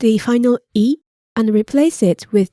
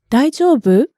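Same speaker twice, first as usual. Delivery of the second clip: 大丈夫? with pitch rising at the end; rising question tune. Shown as a demonstration. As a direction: ask 大丈夫? with an upward lift. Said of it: "with the upward intonation".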